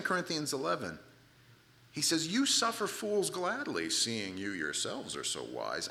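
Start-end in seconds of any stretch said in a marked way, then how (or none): 2.3-5.9 dripping, drawn-out irony; sarcastic. Acted. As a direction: stretch out the false compliment. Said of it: "I mentioned the sarcasm in here".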